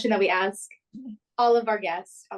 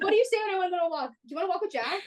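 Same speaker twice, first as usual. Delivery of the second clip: imitating confused people; 7 semitones higher, much faster than usual. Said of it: "it's like".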